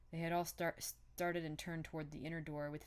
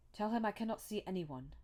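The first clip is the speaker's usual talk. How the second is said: mildly plaintive, raised pitch; complaining; 4 semitones higher, 4 dB louder than usual. A narrator's reading. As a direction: complain from behind a closed door, a touch higher. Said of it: "it said complainingly".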